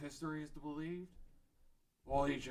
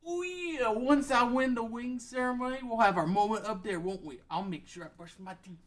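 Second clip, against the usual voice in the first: high, loud, swaggering show-off voice; boisterous Groose; 11 semitones higher, 12 dB louder than usual. Acted. Groose swaggering to Zelda about the wing ceremony, loud and high. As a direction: puff up and boast like a cocky young hero. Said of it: "He's a boisterous human named Groose".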